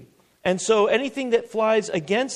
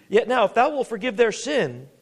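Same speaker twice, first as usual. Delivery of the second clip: raised, emphatic plea; higher-pitched earnest appeal; Moses pleading; 5 semitones higher than usual. Acted. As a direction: voice Moses appealing upward to God. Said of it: "he's, he's speaking".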